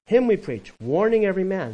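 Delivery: loud, high proclamation; forceful preaching. Acted. Preacher proclaims the verse, loud and high. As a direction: proclaim it to the congregation.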